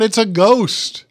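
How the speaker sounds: imitating terrified men crying out; retold frightened cry. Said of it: "they cried out".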